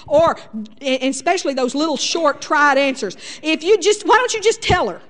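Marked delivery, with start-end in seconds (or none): 3.4-5.0 higher, louder curt advice; impatient quick fix. Retold or imitated. Husband brushing off wife with a curt answer. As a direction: fire off a dismissive fix.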